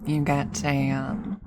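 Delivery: lightly voiced counter worker pitch; customer service voice. Worker pitching rewards to a customer, light customer service voice. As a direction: offer a rewards scheme like a scripted cashier. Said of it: "that's the voice you'd hear".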